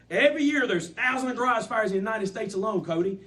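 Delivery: animated sales pitch. Shown as a demonstration. Coach demonstrates a garage fire pitch to Cody, animated. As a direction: pitch it with animation, hitting the name.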